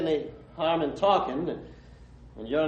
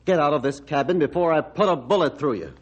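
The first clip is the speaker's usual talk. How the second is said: angry. Acted. Doctor threatens to shoot Ranger.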